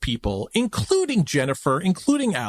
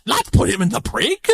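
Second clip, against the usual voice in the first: hammed-up British accent, pitched up; bad British accent, raised pitch; excited English accent; 5 semitones higher than usual. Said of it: "Where is that person from?".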